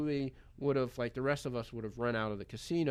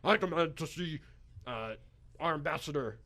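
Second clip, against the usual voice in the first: put-on Russian accent; 4 semitones higher than usual. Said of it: "in this thick Russian accent that he's got".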